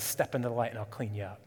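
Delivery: soft, quick reassurance; gentle father's words. Acted. God the father inviting his child, softly. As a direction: offer it like a loving father. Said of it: "He says".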